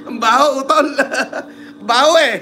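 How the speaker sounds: cracking up between words; teasing a friend while laughing. Real, not acted. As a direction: giggle through the teasing. Laughing at a rude nickname.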